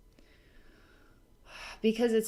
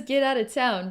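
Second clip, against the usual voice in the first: higher, lively teasing brush-off; giggly playful dismissal; 4 semitones higher, 4 dB louder than usual. Retold or imitated. Forest Princess lightening the mood, giggly teasing dismissal. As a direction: toss it out high, on the edge of a giggle. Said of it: "she says it like that".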